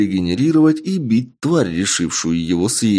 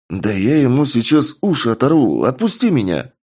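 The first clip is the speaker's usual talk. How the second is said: put-on furious drunk threat, higher pitch; angry yelling; 6 semitones higher than usual. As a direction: shout it while struggling to break free. Drunk amazon struggling, furious.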